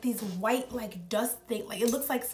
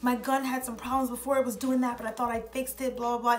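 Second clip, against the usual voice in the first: retold apology, running on without a break; frantic apology; 2 semitones higher than usual. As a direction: imitate someone apologizing over and over. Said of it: "apologizing like crazy".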